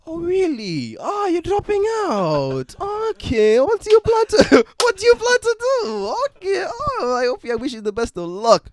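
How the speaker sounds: very high, loud African relative impression; hammed-up African accent, drawn out in shrieky falsetto disbelief; mock African accent. Relatives reacting to a college dropout, mock-astonished African accent. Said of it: "put on an African accent".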